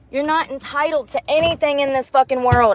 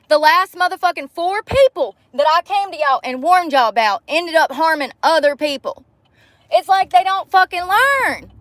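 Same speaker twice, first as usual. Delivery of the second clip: higher, exasperated venting; real outrage, voice pitched up; furious rant; 5 semitones higher than usual. Real, not acted. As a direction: let the frustration boil over at the cops. Furious vent about police.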